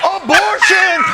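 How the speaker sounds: high, loud triumphant call; excited shout. Real, not acted. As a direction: announce it like a winning word. Host cheering the topic.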